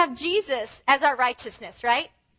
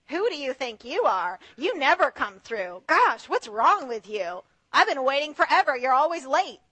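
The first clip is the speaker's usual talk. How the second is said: mock accusing critic; 4 semitones lower than usual. Critic's accusing quote voiced.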